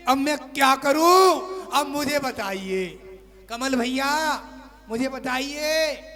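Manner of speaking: mock wailing wife. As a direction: wail it out as the tearful wife. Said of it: "रो रही है, चिल्ला रही है".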